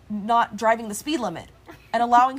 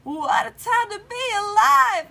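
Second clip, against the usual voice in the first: loud, slow, hyped; excited exclamation; 8 semitones higher, 5 dB louder, slower than usual. Real, not acted. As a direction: shout it out with nervous excitement. Nervous before strip pulled.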